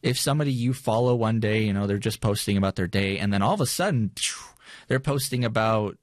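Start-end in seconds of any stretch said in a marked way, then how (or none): 4.1-4.4 quick mouthed whoosh; whoosh noise. Retold or imitated. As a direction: imitate a sudden switch with a puff of air. Sudden change in a poster's feed.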